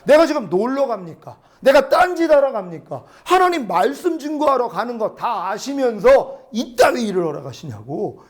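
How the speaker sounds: retold exasperated protest; irritated complaint to God. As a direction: argue crossly with God, mildly heated. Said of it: "하나님한테 신경질이 난 거예요".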